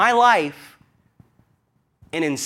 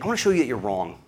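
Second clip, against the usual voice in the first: indignant lecture; 4 dB louder than usual. Retold or imitated. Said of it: "It's like".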